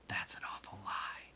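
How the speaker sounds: hushed whisper of accusation. A narrator's reading. Girl answers another girl's story, whispering. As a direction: whisper back in disbelief. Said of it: "She whispered back".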